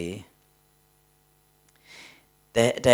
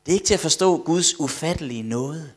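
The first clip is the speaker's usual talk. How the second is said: higher, emphatic exclamation; preacher's amazement; 5 semitones higher, 4 dB louder than usual. Real, not acted. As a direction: proclaim it to the congregation with raised voice. Prædikanten gentager citatet som udråb. (løftet, begejstret forkyndelse)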